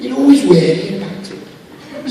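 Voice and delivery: slow it down in a Mancunian accent; Manchester accent. Shown as a demonstration. Voice actor demonstrates his Manchester impression, Manchester accent. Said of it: "you do this perfect Manchester accent".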